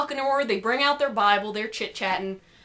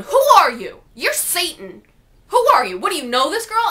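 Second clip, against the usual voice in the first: angry; 4 semitones higher, 5 dB louder than usual. Retold or imitated. Guy angrily confronts.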